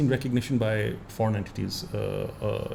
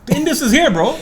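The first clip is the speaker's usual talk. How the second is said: laughing boast; 8 dB louder than usual. Real, not acted. Joking claim to the name.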